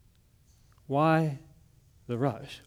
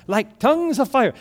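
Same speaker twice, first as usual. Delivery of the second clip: higher-pitched excited cry; fired-up worshipper; 7 semitones higher, 4 dB louder than usual. Acted. Woman in front row answering the pastor, fired up. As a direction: lift it into a fervent call. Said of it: "she's getting all fired up for Jesus".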